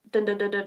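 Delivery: quick run of spoken "dun" thuds; rattled-off punch noises; imitated punching rhythm. Shown as a demonstration. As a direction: mimic rapid bag punches by mouth.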